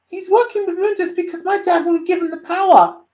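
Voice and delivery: high, loud character voice; urgent young Dante. Acted. Dante warning his uncle about Virgil, urgent. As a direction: press the point high and loud.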